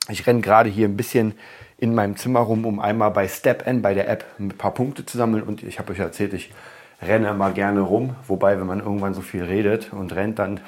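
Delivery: talking while running around; breathless from running; out of breath. Real, not acted. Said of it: "kommt man aus der Puste".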